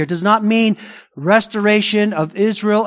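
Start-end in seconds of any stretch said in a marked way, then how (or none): 0.0-0.8 "not" pressed firmly; emphatic stress. Real, not acted. Pastor correcting a common view, stress on "not". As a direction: drive home the word "not". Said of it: "I'm very emphatic here".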